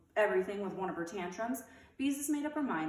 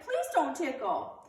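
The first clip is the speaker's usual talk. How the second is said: higher, louder, slow plea; begging; 7 semitones higher, 6 dB louder, slower than usual. A narrator's reading. Ramona begging Beezus not to tickle. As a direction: plead with rising panic. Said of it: "she begged".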